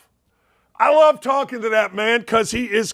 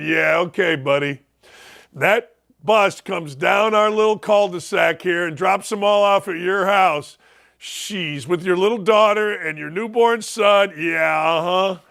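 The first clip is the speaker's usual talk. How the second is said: sarcastic; 3 semitones lower than usual. Retold or imitated. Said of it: "and I remember saying".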